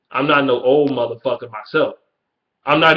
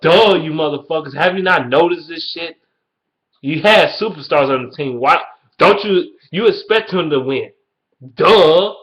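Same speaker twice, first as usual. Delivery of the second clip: mocking exasperation; 3 semitones higher, 3 dB louder than usual. Vlogger mocks fans who called the coach good, exasperated. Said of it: "I'm like".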